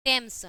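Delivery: "टेम्स" with a hard T; teacher's model "टेम्स", TH pronounced as plain T. Shown as a demonstration. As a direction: say "टेम्स" starting on ट, no h sound. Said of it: "ट होता है".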